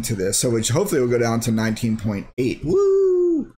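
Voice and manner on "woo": a high, fake "Woo!" with no joy in it; hammed-up sarcastic whoop; sarcastic cheer. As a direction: cheer loudly but mean the opposite. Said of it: "I'm being very sarcastic".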